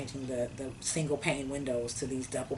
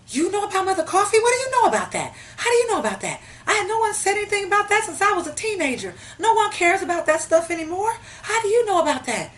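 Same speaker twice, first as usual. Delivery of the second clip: retold excited shout; 11 dB louder, faster than usual. Seller reacts in retold call.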